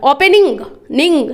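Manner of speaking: ओपनिंग then निंग said again on its own; pronunciation demo. Shown as a demonstration. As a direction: repeat निंग after ओपनिंग to show the sound. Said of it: "double एन का उच्चारण हो रहा है". (ओपनिंग और फिर निंग अलग से)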